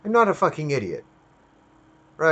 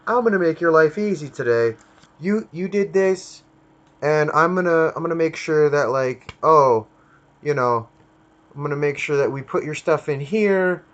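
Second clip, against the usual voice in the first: higher, louder fake-cheerful corporate voice; mocking Google as an eager helper, pitched up; mock friendly Google; 5 semitones higher, 3 dB louder than usual. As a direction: play a sugary helpful company bragging. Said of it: "They can't just be like".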